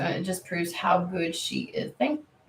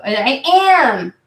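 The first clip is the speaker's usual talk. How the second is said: louder, higher and slow insistence; indignant protest; 6 semitones higher, 11 dB louder, slower than usual. Real, not acted. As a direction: insist you are doing it, voice up. Defending herself to a viewer.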